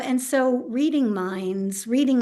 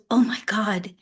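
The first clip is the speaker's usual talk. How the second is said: tearful whisper. Retold or imitated. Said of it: "because she burst into tears".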